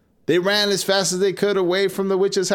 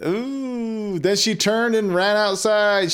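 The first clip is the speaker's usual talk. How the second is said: usual speaking voice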